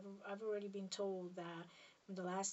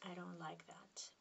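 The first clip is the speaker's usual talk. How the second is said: softer whisper, trailing off; softer whispered repeat; 7 dB quieter than usual. Real, not acted. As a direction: echo it even more quietly to yourself. Repeats it again, quieter.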